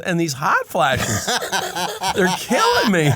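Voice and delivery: high, loud mock anguish; hammed-up outburst of a suffering dad; exasperated dad. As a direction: wail the complaint comically, laughing through it. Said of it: "He goes".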